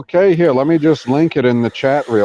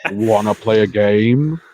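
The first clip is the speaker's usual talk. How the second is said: Saw villain voice; 4 semitones lower, slower than usual. Pretend. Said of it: "I hold him hostage Saw style".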